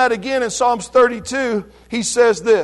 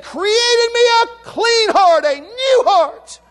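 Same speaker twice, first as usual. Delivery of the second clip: pleading prayer; tearful plea; 7 semitones higher than usual. Retold or imitated. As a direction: let the voice catch on new heart. Psalm plea, voice breaking.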